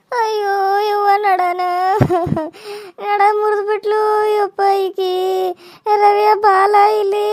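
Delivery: slow, drawn-out mock moaning over her back; hammed-up wail.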